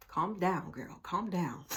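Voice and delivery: soft self-soothing aside; quietly reining yourself in; calming herself. Real, not acted. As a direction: talk yourself down under your breath. Talking herself down.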